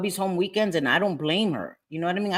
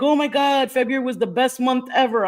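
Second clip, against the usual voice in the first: gushing fans; 6 semitones higher than usual. Retold or imitated. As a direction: imitate excited subscribers raving. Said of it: "people were like".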